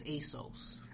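ASOS whispered, breathy and unvoiced. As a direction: ASOS said in a hushed whisper as the correct form. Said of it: "someone used to say".

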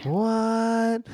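a sudden high, surprised "What?". Real, not acted. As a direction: leap up in disbelief on "What?". Host reacts to farm upbringing.

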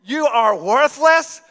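sweet singsong tone with insulting words; mock insults to a dog. Preacher showing how a dog hears only the tone. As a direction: coo nasty words at the dog. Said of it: "But you could say to that dog".

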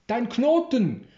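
woman calling after the friar; calling after him. A narrator's reading. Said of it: "hört er hinter sich".

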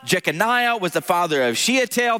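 steady formal scripture reading. Acted. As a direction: read the list like a reverent liturgy. Reads genealogy aloud.

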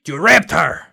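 3 burst out in character; 1 Dorn voice. Acted. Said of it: "my Dorn voice".

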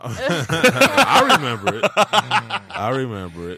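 laughing through the words, slow. Real, not acted. Host laughing at being teased about drinks, slow laughing. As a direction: giggle while you say it.

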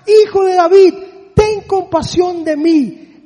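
loud desperate cry. Retold or imitated. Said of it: "se puso a gritar aún más".

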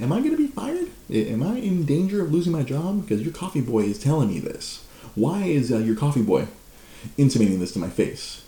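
high, breathless tattling to the boss; high fake alarm calling the boss; mock panic. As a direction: play the worried victim, high. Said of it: "I call my boss, like".

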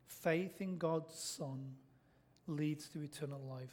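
hushed, slow restatement; soft repeat. Shown as a demonstration. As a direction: let it sink in softly. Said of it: "repeated theme, softer".

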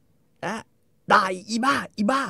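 high-pitched scolding; imitating a furious wife; mock shriek. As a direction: screech the insults. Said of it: "คอนนี่ก็ด่า".

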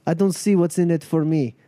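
lightly voiced gang leader, sceptical; a hint of a tough, unimpressed boss; Natasha, unamused. Crew leader doubting the travellers will manage alone, unamused.

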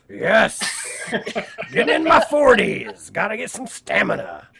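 high, loud laughing cheer; laughing excitedly. Real, not acted. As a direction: laugh it out, thrilled. Laughing excited about stamina.

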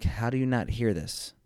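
mildly exasperated disbelief; incredulous inner voice. Retold or imitated. Husband thinking at his wife, mildly incredulous. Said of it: "in my head, I'm like".

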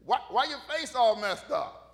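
loud, mock-taunting questions with a laugh; teasing God. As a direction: playfully needle someone as a colloquial God. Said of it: "Here's God going".

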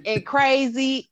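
loud, high, slow, laughing it out; building into a laugh on the wild part; laughing while listing. Real, not acted. Excited list of wild things.

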